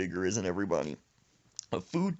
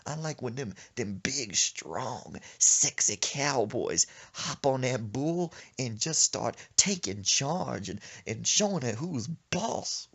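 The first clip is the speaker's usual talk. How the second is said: grandma; 2 semitones higher, slower than usual. Retold or imitated. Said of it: "She said".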